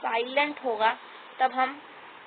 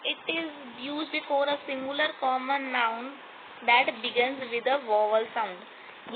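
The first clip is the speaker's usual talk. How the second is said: slow dictation; much slower than usual. Shown as a demonstration. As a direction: read the rule word by word, very slowly. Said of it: "reads rule slowly".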